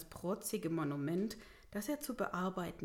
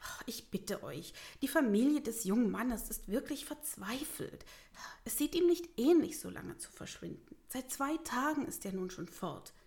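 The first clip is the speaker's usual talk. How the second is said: pleading; 4 semitones higher than usual. Acted. Mayor pleads for missing boy's family.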